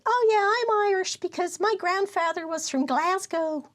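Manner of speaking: high-pitched, overeager American claimant; mock American tourist. Quoting someone from the States claiming Irish roots, mock American. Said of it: "somebody from the States and they said".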